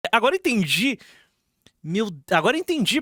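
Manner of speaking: bursts out laughing as it clicks. Real, not acted. Reacting to the video, laughing as he gets it. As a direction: laugh it out, suddenly getting it. Laughs while realizing the point.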